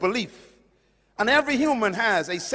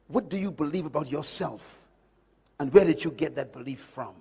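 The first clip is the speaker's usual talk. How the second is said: ordinary talk, nothing marked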